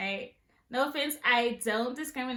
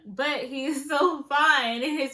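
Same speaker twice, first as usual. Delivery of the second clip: laughing; 2 semitones higher, 6 dB louder, slower than usual. Real, not acted. Gushing over a crush.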